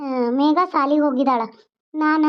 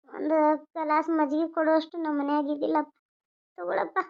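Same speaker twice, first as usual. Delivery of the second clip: softer, tearful apology to father; 5 dB quieter than usual. Acted. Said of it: "ಯಾಕವ್ವ ಹಿಂಗ ಕಣ್ಣೀರ್ ಹಾಕ್ತಿ". (ಕಣ್ಣೀರಿನಿಂದ ಮೆಲ್ಲಗೆ ಮಾತಾಡುವ ಮಗಳು)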